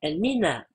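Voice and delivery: "El Mina" without the final "ou"; final vowel dropped. Shown as a demonstration. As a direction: stop "El Mina" on the "a", no case ending. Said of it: "mais on le prononce El Mina". (« El Mina » sans la voyelle finale « ou »)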